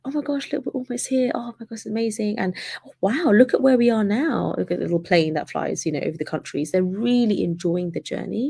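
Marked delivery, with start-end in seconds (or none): 0.1-4.6 much higher, gushing with wonder; excited traveler. Retold or imitated. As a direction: gush like a delighted first-class flyer. They are looking at that map like.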